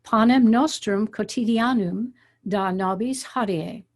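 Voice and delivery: measured reading of the Lord's Prayer in Latin, each accented syllable stressed; teacher demonstrating Latin prayer pronunciation; reading Latin aloud. Shown as a demonstration. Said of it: "But this is what it sounds like".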